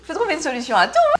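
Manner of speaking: ASMR whisper; breathy whisper to avoid chewing noise. Real, not acted. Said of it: "A S M R".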